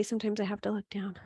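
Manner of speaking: breathy whispered aside to the class. Real, not acted. Yoga teacher confides to the class in a whisper. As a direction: let it slip out under the breath. Aside while holding a pose.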